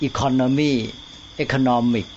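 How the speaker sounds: economy stressed on the second syllable, economic on NOM; เน้นคนละที่. Shown as a demonstration. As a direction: show the stress moving from ec-ON-omy to eco-NOM-ic. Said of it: "นี่เน้นคนละที่แหละ". (economy กับ economic เน้นเสียงคนละพยางค์)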